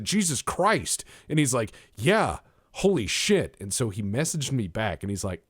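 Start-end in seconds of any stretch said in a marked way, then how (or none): 0.0-1.0 high, drawn-out exclamation; mock shocked. Reacting to the man being forty-eight, mock shocked. Acting out his shocked reply. 1.9-3.6 high, loud, slow agreement; mock amazed. Man agreeing about his own neglect, mock amazed.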